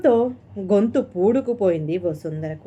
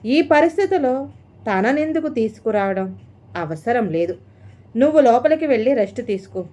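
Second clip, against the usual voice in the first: quick, sharp refusal from a worried mother; mother turning her son's plan down harshly; harsh words; 3 semitones higher than usual. Acted. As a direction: cut him off harshly. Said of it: "మాటలు కఠినంగానే వచ్చాయి".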